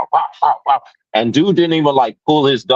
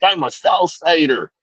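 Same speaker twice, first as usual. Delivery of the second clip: mock gang claim; 7 semitones higher than usual. Voicing the customer again.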